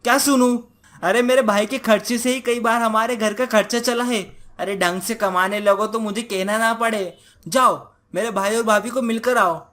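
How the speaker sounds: lightly voiced irritated wife; nagging wife, cross. Wife nagging husband about household money, cross scolding. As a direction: scold him, cutting off his protest.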